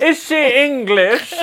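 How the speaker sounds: high, loud, drawn-out incredulity; laughing disbelief. Real, not acted. Co-host baffled by slang from friend's story, laughing disbelief. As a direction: stretch the question out, baffled and laughing.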